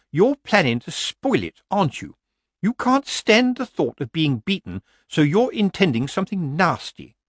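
high-pitched, indignant charge; accusing committee woman. A narrator's reading. Committee woman charging Granny with spoiling it, accusing.

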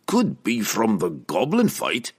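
slow, hopeful guess. A narrator's reading. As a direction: offer it hopefully. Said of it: "Brunner said hopefully".

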